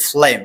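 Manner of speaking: ফ্লেম said "flem", starting on F; pronunciation model. Shown as a demonstration. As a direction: demonstrate ফ্লেম with the G silent. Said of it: "এটার pronunciation হবে".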